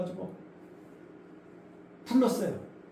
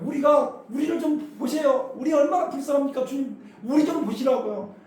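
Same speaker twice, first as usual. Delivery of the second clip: retold pleading shout; 4 semitones higher than usual. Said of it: "막 소리를 지른 거예요".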